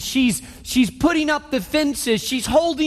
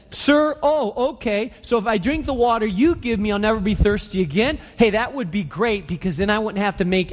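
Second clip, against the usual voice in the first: sarcastic. Retold or imitated. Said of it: "There's sarcasm in, in her tone".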